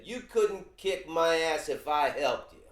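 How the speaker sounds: loud mock yell at another guy; angry homeless man yelling; retold shout. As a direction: shout it like a furious street guy. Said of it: "and he said".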